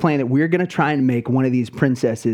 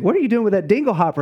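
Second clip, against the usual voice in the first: lightly voiced mermaid, higher and quick; higher, hurried princess impression; mock mermaid princess; 6 semitones higher, much faster than usual. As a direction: imitate a park mermaid staying in character. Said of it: "some redhead that's supposed to be a mermaid".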